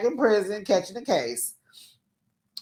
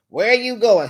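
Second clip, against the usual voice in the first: louder, stern guard demand; correctional officer again; 3 semitones higher, 5 dB louder than usual. Retold or imitated. Woman grilling her man like a prison guard. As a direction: bark it like a jailer checking on him. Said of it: "acting like a correctional officer".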